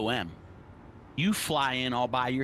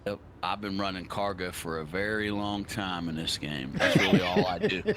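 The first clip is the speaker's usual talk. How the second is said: grizzled vet; 2 semitones lower than usual. Real, not acted. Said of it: "You sound like a grizzled vet".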